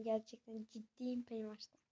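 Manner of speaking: unvoiced, hushed confession; whisper. Real, not acted. Kid admitting to viewers he fears Pennywise, whispered. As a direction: whisper it like a secret.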